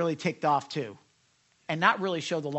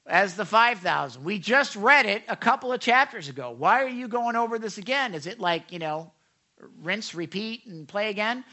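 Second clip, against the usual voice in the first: loud, raised mock complaint; objecting scholar; 3 semitones higher, 6 dB louder than usual. Preacher voices scholars questioning the repeat, mock complaint. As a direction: lightly act a sceptic's protest. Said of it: "Some scholars will say".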